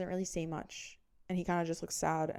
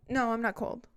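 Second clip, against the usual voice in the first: higher-pitched mock protest; defensive denial; 4 semitones higher than usual. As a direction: brush him off while playing at being cold. Feigned denial of being cold.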